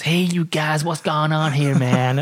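high, drawn-out American redneck voice. Retold or imitated. Redneck dog owner asking the cyclists what's going on, in an American accent. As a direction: put on a hick American drawl. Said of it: "this crazy redneck come up, goes".

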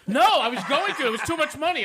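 high laughing voice; words through laughter. Real, not acted. Laughing about a wedding themed on a famous singer.

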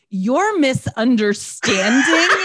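slow, high, affronted indignation; indignant outrage. Retold or imitated. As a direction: act out offended disbelief. Retelling Megan's indignant outburst.

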